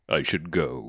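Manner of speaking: low, soft mock excuse; understated retreat. Prince excuses himself after Dracula's insult, understated retreat. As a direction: slip away politely, deadpan joke.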